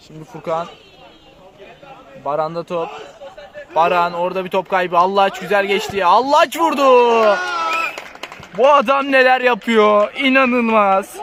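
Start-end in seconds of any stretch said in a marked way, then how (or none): 6.0-11.2 rising thrilled commentary; excited goal call. Real, not acted. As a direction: call the shot with delight. (heyecanlı gol anlatımı)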